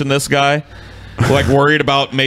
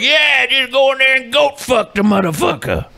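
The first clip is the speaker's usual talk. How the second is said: gung-ho fan voice; 10 semitones higher than usual. Retold or imitated. Voicing the video's audience.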